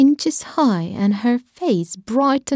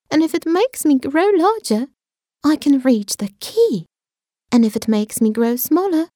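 put-on eager girl voice; 4 semitones higher than usual. Alice plans aloud.

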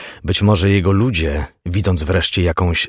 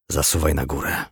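softer, understated sympathy; sympathetic; 2 semitones lower, 5 dB quieter than usual. A narrator's reading. Lieutenant sends detective upstairs, softly sympathetic. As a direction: give the order gently, without command. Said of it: "a raczej współczujący".

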